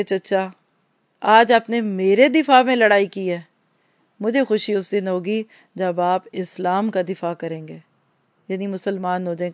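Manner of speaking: mildly tender, unhurried quote; affectionate. Retold or imitated. Prophet gently answers his proud uncle, with understated affection. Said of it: "بڑے پیار سے کہا".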